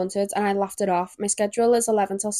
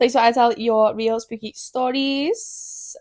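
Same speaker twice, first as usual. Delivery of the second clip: spooky intro; 2 semitones higher, slower than usual. Acted. Drawn-out spooky intro line.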